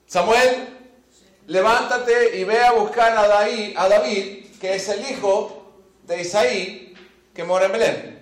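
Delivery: lightly voiced God calling a prophet, slow; God instructing Samuel. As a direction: call the prophet, then spell out the order. Imagines God giving full instructions.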